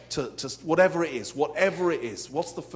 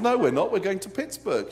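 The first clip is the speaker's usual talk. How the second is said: higher and louder, firmly insisting; insistent protest; 5 semitones higher, 5 dB louder than usual. Retold or imitated. Passenger arguing with the flight attendant, firm and insistent. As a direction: contradict her with total confidence. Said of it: "I said".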